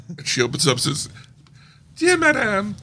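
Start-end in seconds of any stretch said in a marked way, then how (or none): 2.0-2.8 high, slow, posh letter voice; posh letter reader. Pretend. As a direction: read it like a very posh invitation. Formal letter read out posh.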